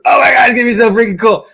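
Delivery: put-on high, fast and loud kid voice; excited kid. Boy about the Halloween prop, high and fast with excitement. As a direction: rattle it off like a thrilled boy. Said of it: "that's how excited we were".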